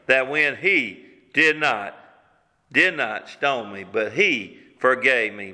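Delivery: slow right down, pausing on the weight of it; heartfelt testimony. Acted. Preacher voicing the forgiven woman's fondest memory, heartfelt testimony.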